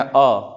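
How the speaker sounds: short clear अ, briefly and slowly spoken; short vowel demo. Shown as a demonstration. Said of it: "तो अ जब बोल रहे हैं".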